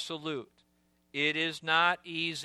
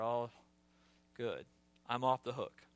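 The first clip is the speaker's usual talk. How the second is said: much lower and much softer, a smug relieved murmur; relieved Peter; 5 semitones lower, 8 dB quieter than usual. Acted. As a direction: sigh it out as if let off the hook. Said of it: "There's obviously a limit".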